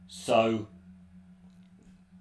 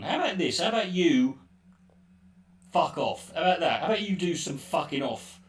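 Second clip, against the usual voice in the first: angry retort; 5 semitones higher, 3 dB louder than usual. Real, not acted.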